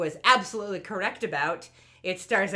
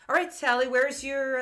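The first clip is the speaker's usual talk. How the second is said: a hint of cartoon grown-up, slightly raised and firm; lightly voiced adult; 5 semitones higher, 3 dB louder than usual. Adult kitting out the kids, lightly voiced grown-up. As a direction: lightly play the adult in charge. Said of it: "no, the adult".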